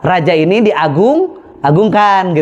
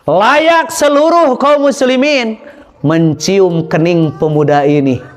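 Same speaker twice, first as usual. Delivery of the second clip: solemn Umar; slower than usual. Acted. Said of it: "Maka kata Umar bin Khattab".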